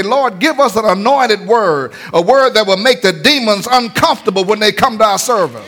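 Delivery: preacher's chanted plea to the Lord; fervent prayer. Acted. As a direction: pray it like a preacher crying out. Prayer voiced in sermon.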